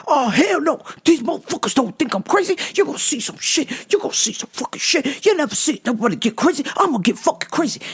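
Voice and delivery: crazed rant. Retold or imitated. Acting the man's crazed rant.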